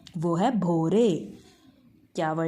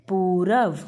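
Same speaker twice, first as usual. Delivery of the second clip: loud repeat; 5 dB louder, much slower than usual. Shown as a demonstration. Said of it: "क्या है?".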